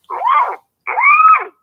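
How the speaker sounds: high, loud whoop of outrage; shrill fired-up holler; whooping shout. Real, not acted. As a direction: whoop it out at the top of your voice.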